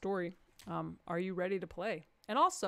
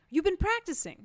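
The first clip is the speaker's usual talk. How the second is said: teasing; 9 semitones higher, 6 dB louder than usual. Real, not acted. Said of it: "teasing audience member".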